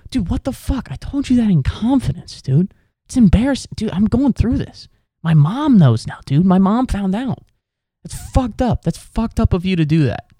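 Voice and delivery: high, loud wounded whine; hammed-up embarrassed koala; betrayed koala. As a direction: whine like a hurt friend who got outed. Koala voiced, upset at betrayal.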